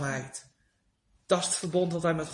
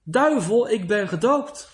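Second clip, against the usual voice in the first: Luther's defiant cry; 3 semitones higher, 5 dB louder than usual. Retold or imitated. Luther cries out against the devil, loud defiance. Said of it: "riep Luther".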